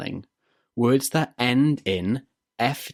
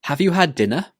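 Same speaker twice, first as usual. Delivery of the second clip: "Have you had dinner?" higher, rising at the end; rising intonation; 5 semitones higher than usual. Shown as a demonstration. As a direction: swing up on "dinner?". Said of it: "needs to go up at the end".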